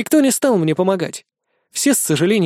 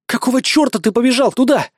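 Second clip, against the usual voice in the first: angry outburst; 7 semitones higher than usual. A narrator's reading. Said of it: "взорвалась Катя".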